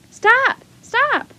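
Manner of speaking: high, loud urgent yells; yelling. A narrator's reading. Two children chase the wagon, urgent yelling. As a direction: yell after someone driving off. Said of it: "they both yelled".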